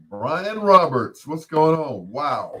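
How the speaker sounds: high, loud, stretched-out name; big surprised hello, calling out; excited greeting. Real, not acted. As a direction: hail a long-lost friend with delight. Delighted greeting to an old boss.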